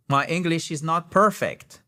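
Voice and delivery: "perfect" with the stress on the first syllable, PER-fect. Shown as a demonstration. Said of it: "Accent tonique sur la première syllabe".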